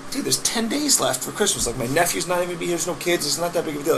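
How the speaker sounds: high, pleading pushback; arguing with his boss about a tree, high and exasperated; exasperated protest. Retold or imitated. Retelling argument with boss.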